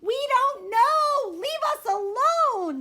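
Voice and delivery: loud high slow exasperated shout. Acted. Siblings fed up with her questions, shouting. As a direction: yell it to get rid of her. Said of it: "they shout".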